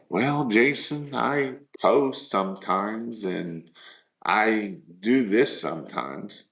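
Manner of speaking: slow, halting client's excuse; hesitant excuse. Retold or imitated. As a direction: imitate someone owning up slowly and vaguely. Acted excuse from stalled client.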